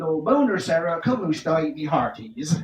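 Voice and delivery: put-on Italian greeting in a Welsh country accent; lilting Welsh take on Italian; Welsh country twang. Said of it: "I speak it with a Welsh country twang".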